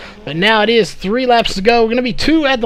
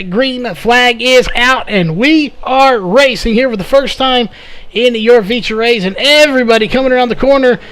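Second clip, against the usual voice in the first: excited; 2 semitones higher than usual. Real, not acted. Green flag race start call.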